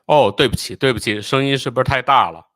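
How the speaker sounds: loud, hurried apology for the noise. Real, not acted. Apologizing as video sound is too loud. (提高嗓门连声道歉)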